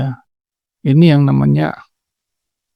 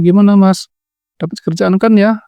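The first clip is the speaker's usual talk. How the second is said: lightly voiced eager wife, higher pitch; istri menyambut suami; 5 semitones higher than usual. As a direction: ask your husband hopefully, pitched up. (istri bertanya penuh harap, nada lebih tinggi)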